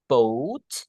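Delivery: BOAT drawn out with rising end; model pronunciation. Shown as a demonstration. Teacher modelling for learners, BOAT stretched and rising. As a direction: lengthen the vowel of BOAT, ending upward. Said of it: "It should be".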